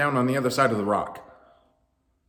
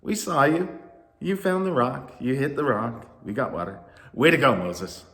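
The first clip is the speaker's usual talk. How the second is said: insistent; 4 semitones higher, 4 dB louder than usual. Acted. Crowd insisting.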